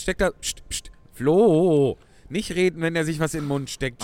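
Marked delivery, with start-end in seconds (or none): 0.3-0.9 whispered shushing; hushing. Real, not acted. Hushing a colleague. 1.1-2.8 urgent hush. Real, not acted. Hushing a colleague urgently.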